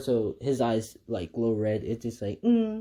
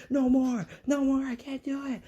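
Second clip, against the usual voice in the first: high strained shriek of a broken villain; screaming in agony; 14 semitones higher than usual. Retold or imitated. Tortured villain begging for mercy, high shriek. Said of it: "he goes up and screams".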